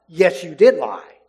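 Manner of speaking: firm, loud stress on "did lie"; emphatic. Acted. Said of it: "that's actually very emphatic".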